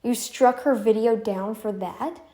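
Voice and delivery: slow, incredulous question; drawn-out mock disbelief; disbelieving family. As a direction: play an appalled relative questioning it. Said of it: "your family's gonna be like".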